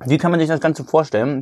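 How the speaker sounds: talking with mouth full; chewing a bite of burger while talking. Real, not acted. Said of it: "Entschuldigung, dass ich jetzt mit vollem Mund rede".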